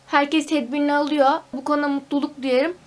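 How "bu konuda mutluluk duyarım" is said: whispered aside. Real, not acted. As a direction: breathe it as a secret aside. Aside praising careful friends. (fısıltıyla)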